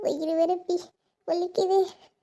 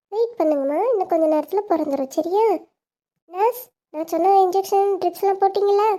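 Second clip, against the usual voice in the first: doctor voice. Acted. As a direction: play the doctor calmly ordering rest. Doctor calms patient.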